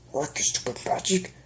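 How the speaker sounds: frantic strain. Acted. Straining to heal her.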